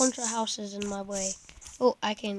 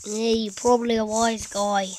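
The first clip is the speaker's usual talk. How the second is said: half-hearted Italian wise-guy voice, a bit louder; bad Italian accent; 6 dB louder than usual. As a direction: put on a poor mock-Italian accent. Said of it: "that's not a good Italian voice".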